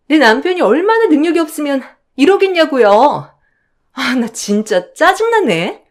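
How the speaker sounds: a hint of a whiny new bride talking back; sister-in-law. Younger sister-in-law voiced.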